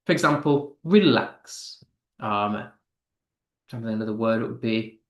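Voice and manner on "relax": "relax" with weak first syllable, strong second; "relax" as a weak-strong beat; stress on second syllable. Shown as a demonstration. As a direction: lean on the end of "relax". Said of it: "unstressed followed by a stressed syllable".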